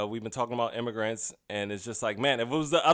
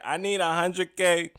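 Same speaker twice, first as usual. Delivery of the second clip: mock politician; 3 semitones higher than usual. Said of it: "talking to the Pakistani people like a politician".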